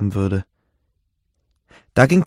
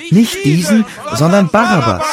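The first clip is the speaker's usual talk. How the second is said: much higher, louder crowd cry; crowd shouting; 7 semitones higher, 5 dB louder than usual. A narrator's reading. The crowd demands Barabbas, shouting. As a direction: shout it like an angry mob. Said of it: "Da schrien sie wiederum".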